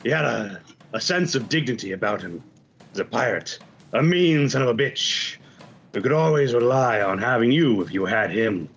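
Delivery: measured in-character tribute with long pauses; lightly voiced pirate honoring the dead; pirate eulogist. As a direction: let each phrase hang before the next. Pirate eulogy aimed at one listener.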